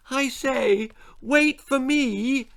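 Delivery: put-on high little-girl voice calling after them. A narrator's reading. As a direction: call out to the older ones as a small girl. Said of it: "she shouted".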